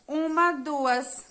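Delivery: Uma, duas counted slowly and deliberately. Shown as a demonstration. Teacher slowly recounting the syllables for the class. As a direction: count Uma, then duas, taking your time. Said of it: "a palavra neta tem duas sílabas".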